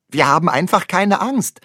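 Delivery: put-on boy answering his sleepy dad; confident child. A narrator's reading. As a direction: answer proudly and brightly. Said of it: "sagt Ole".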